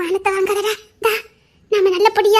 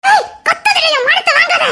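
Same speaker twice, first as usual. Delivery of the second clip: sharp hush; 7 semitones higher than usual. Acted. Bride hushes his yelling.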